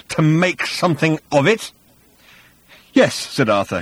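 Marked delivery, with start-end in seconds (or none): 0.1-1.7 raised threat, rising at the end; menacing hiss. A narrator's reading. Thor daring Arthur to go on, hissing menace. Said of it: "with a hiss like a river". 2.9-3.1 firm, defiant answer; strong, belligerent. A narrator's reading. Arthur standing firm before Thor, belligerent. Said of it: "strong and belligerent".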